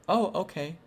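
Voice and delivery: lightly imitating a child's chirpy reply; retold high-pitched girl voice; little girl voice. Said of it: "more like a little girl's".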